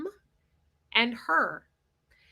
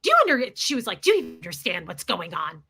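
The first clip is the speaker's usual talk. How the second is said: domineering; 4 semitones lower, 4 dB louder than usual. Retold or imitated. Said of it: "she goes".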